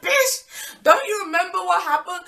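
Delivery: high, loud, squawked retort; hammed-up incredulous outrage; outraged disbelief. Answering the ex's friendly greeting at the bus stop, outraged.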